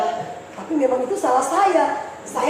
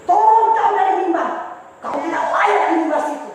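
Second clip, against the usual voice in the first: harsh command; 4 semitones higher, 5 dB louder than usual. Retold or imitated. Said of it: "Tiba-tiba pemimpin saya bilang".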